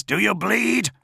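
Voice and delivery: high-pitched, challenging question; tense, high taunt. A narrator's reading. Fighter taunts his unseen enemy.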